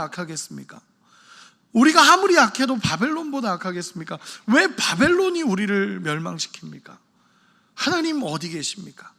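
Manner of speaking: mildly acted indignant questioning, starting high; arguing with God. Preacher acting Habakkuk asking why Babylon destroys them, mild protest. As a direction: challenge God, then let it sink on the last question. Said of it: "라고 하면서 따졌던 사람이".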